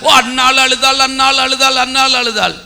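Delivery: level, repetitive mock recital; droning churchgoer. Preacher mimicking weekly churchgoers repeating Hannah's story, mock droning. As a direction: imitate a churchgoer's monotone refrain. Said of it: "காலமா சபைக்குள்ள வர்ற".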